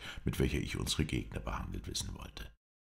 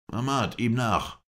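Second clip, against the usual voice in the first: high, loud, drawn-out order; commanding; 9 semitones higher, 5 dB louder, slower than usual. A narrator's reading. Father orders his son after the escapee, commanding. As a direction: send him off with a raised, slow command. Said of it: "gebot Mohammed Emin seinen Sohne".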